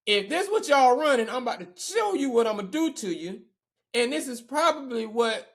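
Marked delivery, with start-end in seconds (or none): 0.1-3.4 louder and higher, full of swagger; cocky trash talk. Retold or imitated. Receiver taunting his own defense in practice, loud cocky swagger.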